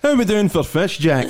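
laughing mock Uncle Alec. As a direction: squeak it out while cracking up. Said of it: "The Uncle Alec voice".

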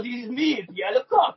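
lightly hammed-up French accent, pitched a little up. Shown as a demonstration. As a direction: show off a mock French accent. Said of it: "Come on, French accent".

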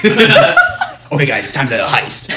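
squeaky laughing start, then slow; mock the English dub, laughing; dubbed Nairobi voice. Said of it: "Nairobi's like".

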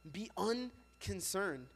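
slowed, drawn out; preacher repeating the phrase slowly. Shown as a demonstration. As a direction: lay each word down slowly. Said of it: "Everybody say".

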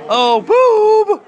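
high, loud startled cry; surprised yelp. Real, not acted. At the bowling table, a sudden high startled yelp.

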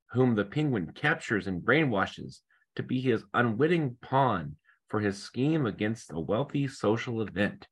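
rushed in a single breath; all in one breath. Real, not acted. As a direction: read it without stopping to breathe. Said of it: "I'm out of breath now".

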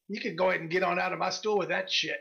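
lightly voiced gruff merchant sending someone off; mildly gruff brush-off from a shopkeeper. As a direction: dismiss a haggler with a touch of gruffness. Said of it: "she's got this gruff voice".

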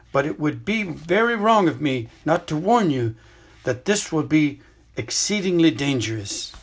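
put-on an old headmaster explaining gently but seriously; Dumbledore. Headmaster tells student about the hidden cave, grave and measured.

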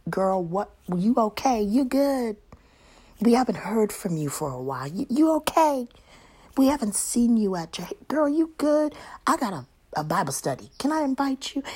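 high, eager checking-in voice; caring church friend. Retold or imitated. Church sister checking on a friend, high and eager. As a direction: pitch up like a concerned sister. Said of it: "reach out to me and say".

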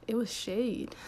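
breathy conspiratorial whisper; whispered aside. Real, not acted. Realizing compliments were insults, whispered punchline. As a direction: let the reveal drop to a whisper.

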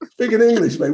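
hammed-up indignant insistence; mock mortified. British traveller insisting to Americans it is English, mock mortified. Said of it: "I was mortified".

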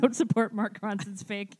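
slowed, laughing through the words; slow laughing dismissal. Real, not acted. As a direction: drag it out while laughing. Mocking sapiosexual label.

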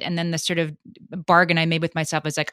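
ordinary delivery

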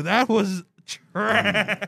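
slow, laughing through the words. Real, not acted. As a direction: laugh while you judge it. Laughing while mocking joke.

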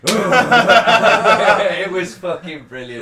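loud, high laughing delivery. Real, not acted. Laughing while telling hosts about the rugby fans. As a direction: still laughing from the impression.

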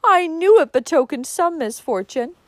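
high, loud ominous lament; sniffing. A narrator's reading. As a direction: sniff out a gloomy omen. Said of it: "sniffed Cousin Georgiana".

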